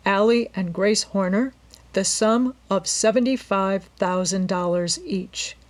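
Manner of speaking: measured formal reading of a will; clear reading. A narrator's reading. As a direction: read the legal text out deliberately. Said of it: "began to read in a clear voice".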